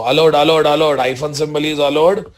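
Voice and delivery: loud, insistent confirmation; emphatic loud. Real, not acted. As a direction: hammer home that it's allowed. Teacher emphatic, much louder.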